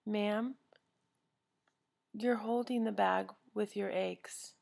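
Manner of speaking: slow, gentle correction; very nicely. Retold or imitated. Bagger pointing out the bag, slow and gentle. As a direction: break it to her kindly. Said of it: "very nicely".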